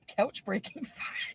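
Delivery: reading it out, breaking into a laugh; slow, cracking up at the end. Retold or imitated. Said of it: "he wrote".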